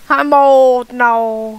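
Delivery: lightly voiced old man; a hint of an old man. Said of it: "You sound like an old man".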